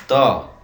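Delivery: ᱛᱚ sounded out clearly for learners; pronunciation demo. Shown as a demonstration. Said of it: "ᱩᱪᱪᱟᱨᱚᱱ ᱫᱚ ᱦᱩᱭᱩᱜᱼᱟ".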